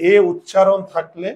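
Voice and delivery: emphatic rule with এ punched; stressed rule. Shown as a demonstration. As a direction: hit এ hard so the rule sticks.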